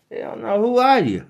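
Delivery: answering a vain celebrity with a high scornful retort. Acted. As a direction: cut him down with scorn.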